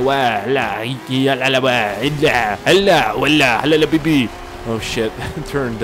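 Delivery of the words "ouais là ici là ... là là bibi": mock French chatter. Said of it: "a bunch of French people talking up front".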